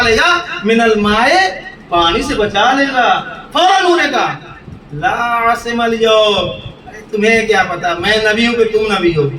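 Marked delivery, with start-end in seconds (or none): 4.9-6.5 Quranic recitation. Shown as a demonstration. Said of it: "ترجمہ کر رہا ہوں سمجھانے کے لیے".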